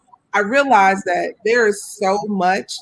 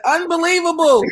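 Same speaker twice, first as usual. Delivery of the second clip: mock disbelief; 8 semitones higher than usual. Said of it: "I said".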